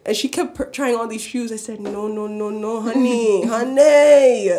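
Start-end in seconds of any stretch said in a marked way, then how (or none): 1.8-4.5 sassy scolding. Retold or imitated. Retold scolding of customer.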